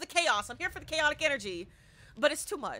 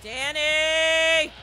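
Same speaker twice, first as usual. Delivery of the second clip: loud high shout; calling out; 4 semitones higher, 10 dB louder, much slower than usual. Real, not acted. Player yelling for teammate Danny, loud high call. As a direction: yell across the house.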